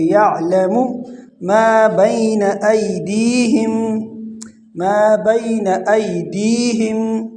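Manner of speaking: slow tajweed, long held vowels; Quran recitation. Shown as a demonstration. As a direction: draw out each syllable steadily. Recites verse for students. (تجوید سے تلاوت)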